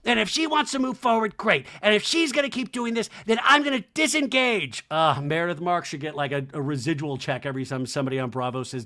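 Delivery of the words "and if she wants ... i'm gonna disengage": mock Kyle. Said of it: "I love Kyle's like".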